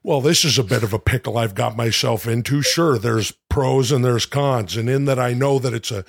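lightly voiced Ventura, musing; a hint of Ventura turning spider; Jesse Ventura. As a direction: shrug it off like Ventura. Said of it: "monologue is Jesse Ventura".

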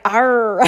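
loud, drawn-out English R; pirate-like R. Shown as a demonstration. Mother teaching her son to read, exaggerated R. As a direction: growl out a long pirate R. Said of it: "I sound like a pirate".

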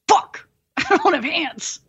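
cracking up at the joke on herself; laughing realization. Retold or imitated. Patient on painkillers, slow and laughing.

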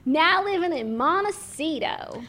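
lightly posed royal, slowed at the end; Prince Harry. Pretend. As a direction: savour the sunny brag. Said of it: "I'm Prince Harry".

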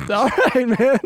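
high-pitched, half-laughing concession; mock-meek reply to a friend; backing off, amused. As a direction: back down in a high voice. Backing off after being told off.

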